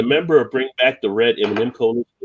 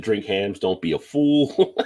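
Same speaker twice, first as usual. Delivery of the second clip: Mister T; slower than usual. Retold or imitated. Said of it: "To be Mister T selling that one".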